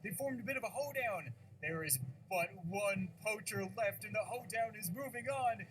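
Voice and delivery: lightly voiced tournament announcer. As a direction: commentate the match with hype. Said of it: "that stupid announcer voice".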